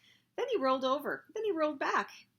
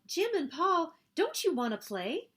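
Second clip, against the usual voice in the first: high, louder playmate's call; 8 semitones higher, 4 dB louder than usual. A narrator's reading. Anna Maria invites two boys to play, calling out. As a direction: call over to two friends. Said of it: "Anna Maria called".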